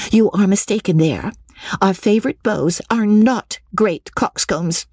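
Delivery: high-pitched, insistent correction; Lucy crying out. A narrator's reading. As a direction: set the sister straight in Lucy's high voice. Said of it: "cried Lucy".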